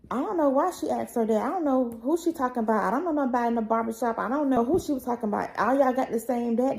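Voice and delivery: quick, mildly defensive retelling; defensive denial. Retold or imitated. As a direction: rattle off mom's denials. Retold mom denying everything.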